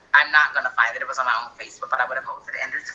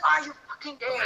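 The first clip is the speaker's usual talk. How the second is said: mock demanding mom; 10 semitones higher than usual.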